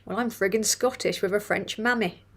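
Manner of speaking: put-on rough go at a Scottish accent; attempted Scottish accent. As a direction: read it in an amateur Scottish accent. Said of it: "me attempting to do Scottish".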